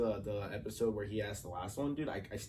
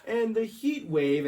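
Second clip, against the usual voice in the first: nice newscaster voice; 12 semitones higher, 8 dB louder, much slower than usual. Retold or imitated. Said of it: "like, nice voice".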